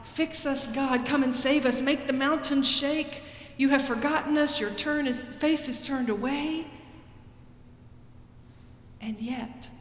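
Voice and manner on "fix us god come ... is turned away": higher, urgent lament to God; prophet's cry. Acted. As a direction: plead that God has forgotten them. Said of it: "He cries out to God".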